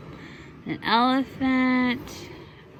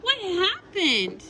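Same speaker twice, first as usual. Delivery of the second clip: slow, higher curious question; Emily asking; 9 semitones higher, slower than usual. Acted. Mother reading, Emily eagerly asks Corky. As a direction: lean in with curiosity.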